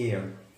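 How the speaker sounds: एयर starting on a vowel sound; silent H. Shown as a demonstration. Teacher explains the vowel sound, एयर with no H. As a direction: leave the H out of एयर. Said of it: "एच को pronounce नहीं करेंगे".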